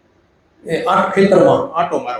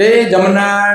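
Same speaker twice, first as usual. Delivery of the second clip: raised, higher call across the yard; calling out a name; 6 semitones higher, much slower than usual. Retold or imitated. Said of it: "એકદમ બૂમ પાડી".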